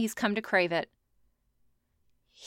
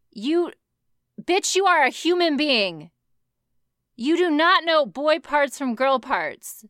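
loud, higher, exasperated; indignant rant; 4 semitones higher, 4 dB louder than usual. Real, not acted. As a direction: scold her hard. Ranting at Donovan.

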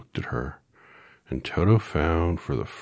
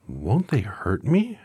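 anxious; 7 semitones higher, 6 dB louder, slower than usual. A narrator's reading. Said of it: "asked the girl anxiously".

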